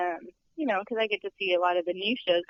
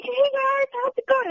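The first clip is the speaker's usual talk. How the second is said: imitating a friendly star; 4 dB louder than usual. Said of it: "he's like".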